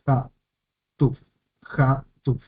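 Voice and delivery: Hatuf said as two separate beats, Ha... tuf; syllable by syllable. Shown as a demonstration. Teacher showing two syllables in Hatuf, split apart. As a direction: leave a gap between Ha and tuf in each Hatuf. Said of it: "tenemos dos sílabas".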